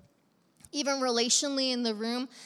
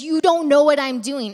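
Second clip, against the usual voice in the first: loud, raised-pitch proclamation; emphatic retold quote; 4 semitones higher, 13 dB louder than usual. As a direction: act out a teacher's forceful declaration. Acting out Jesus addressing disciples.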